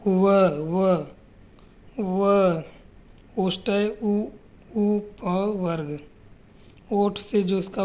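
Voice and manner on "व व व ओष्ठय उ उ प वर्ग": व said several times, carefully and distinctly; labiodental demo. Shown as a demonstration. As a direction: repeat व slowly to show the lips and teeth. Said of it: "जैसे".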